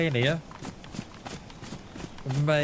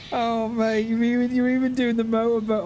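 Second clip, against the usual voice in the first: delighted higher exclaim; 6 semitones higher than usual. Real, not acted. Cracking up at the photo.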